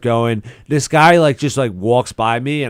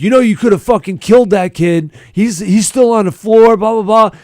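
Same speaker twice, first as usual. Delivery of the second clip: mock scolding; 7 semitones higher, 3 dB louder than usual. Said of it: "reading me the riot act".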